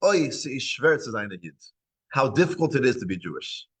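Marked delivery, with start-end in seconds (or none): 0.1-1.5 sighing lament. Retold or imitated. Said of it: "he always would say in Yiddish".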